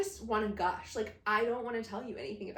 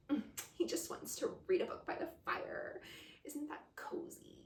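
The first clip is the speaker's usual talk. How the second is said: unvoiced, breathy mock coziness; teasing whisper of a self-satisfied narrator; mock smug narrator; 5 semitones higher, 4 dB quieter than usual. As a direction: whisper it like a smug narrator over your shoulder. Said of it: "being like".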